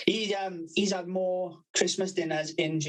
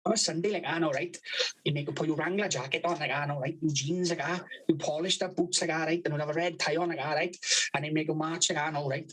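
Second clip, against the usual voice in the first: imitating his speech. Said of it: "This is how he speaks".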